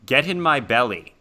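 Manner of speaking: a mildly weird voice in someone's head; oddly insistent voice in the head; weird inner voice. Acted. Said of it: "in a pretty weird voice".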